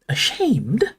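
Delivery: high, rising blank question; blank puzzlement. A narrator's reading. Hermione is baffled by the elf, blank echo. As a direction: echo the word, at a loss. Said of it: "said Hermione blankly".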